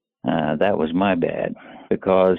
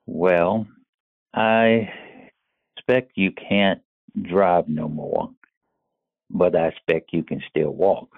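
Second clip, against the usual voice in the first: lightly voiced old Southern gentleman drawl; a hint of a gentle Southern drawl, kindly; easy Southern drawl, gently teasing; soft Southern drawl. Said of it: "in his soft Southern drawl".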